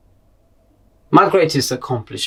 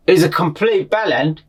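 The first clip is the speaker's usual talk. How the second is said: lightly voiced pupil, higher pitch; mildly mock a pupil's scorn; scornful pupil; 5 semitones higher, 4 dB louder than usual. Pupils judging their English teacher, lightly imitated scorn. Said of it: "they just look at me like".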